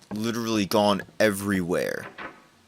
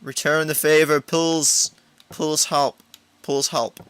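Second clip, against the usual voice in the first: put-on high, louder baby-talk pleading; childish begging; 7 semitones higher, 4 dB louder, slower than usual. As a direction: whine like a little kid asking. Begging the penguin for help.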